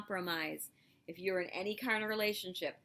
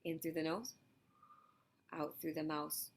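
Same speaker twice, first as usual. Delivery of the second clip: calm breathing guide; 4 dB quieter than usual. Shown as a demonstration. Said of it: "Let's practice that right now".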